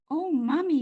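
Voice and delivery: put-on high, bright little girl; a young girl calling her mom. A narrator's reading. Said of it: "she said".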